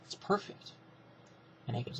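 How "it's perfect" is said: whispered, softer aside; conspiratorial hush. Retold or imitated. Bischoff turning back to Heyman, conspiratorial whisper. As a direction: hush it like a secret scheme.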